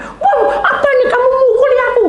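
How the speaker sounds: high, loud startled cry with a laugh. Acted. Revived brother startled at his sister, crying out high with a laugh. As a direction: jump up high in shock.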